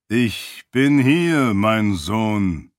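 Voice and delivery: langsam, gedehnt gesprochen, leicht verfremdet; Stimme des Wirns. Acted. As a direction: als ferner Herrscher durch die Kugel sprechen. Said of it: "Des Wirns Stimme drang durch das Seon". (Herrscher spricht durch das Seon zu Heraten, langsam und gedehnt)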